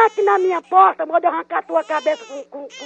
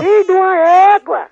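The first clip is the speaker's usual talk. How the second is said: louder, fast angry curse; furious outburst; 2 semitones higher, 5 dB louder, faster than usual. Real, not acted. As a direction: spit the insult out in a rage. Furious woman swears at caller. (xingamento furioso)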